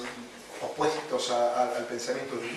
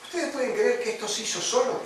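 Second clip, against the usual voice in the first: butcher's question; 8 semitones higher than usual. Retold or imitated. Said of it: "Entonces dijo".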